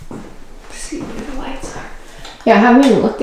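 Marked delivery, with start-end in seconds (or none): 0.1-1.8 soft whisper. Real, not acted. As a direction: hush it to a breathy whisper. Quietly checking room, lights.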